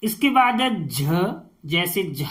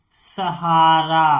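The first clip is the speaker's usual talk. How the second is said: slow example word; 4 dB louder, much slower than usual. Shown as a demonstration. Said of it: "इसको पढ़ते हैं स".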